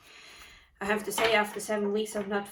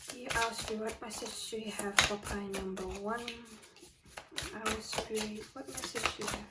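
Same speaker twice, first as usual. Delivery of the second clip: soft invocation; 7 dB quieter than usual. Acted.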